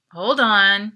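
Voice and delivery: curt. A narrator's reading. Clerk tells them to wait.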